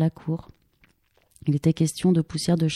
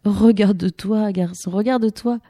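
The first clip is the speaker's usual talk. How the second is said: put-on laughing at the boy; 4 semitones higher, 4 dB louder than usual. Hanna riant, montre le garçon.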